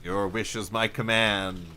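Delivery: lightly voiced grand genie; a hint of a genie granting wishes. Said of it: "Or you just, you just talk like that?".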